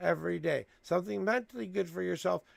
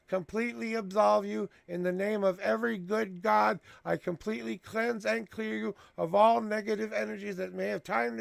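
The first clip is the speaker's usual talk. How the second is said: raised, ceremonial blessing voice; solemn blessing; 3 semitones higher than usual. Acted. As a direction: bless them like a priest absolving sins. Speaks a blessing of absolution.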